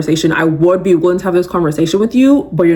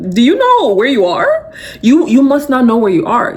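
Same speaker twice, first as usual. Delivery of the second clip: mock indignation; 5 semitones higher than usual. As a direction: act amazed they dared. Mock outrage at disrespect.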